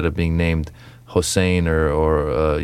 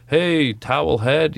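heckler; 8 semitones higher, slower than usual. Retold or imitated. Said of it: "somebody in the crowd goes".

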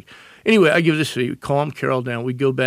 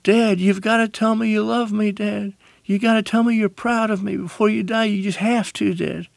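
retold pleading scream; 8 semitones higher than usual. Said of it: "screaming at my father".

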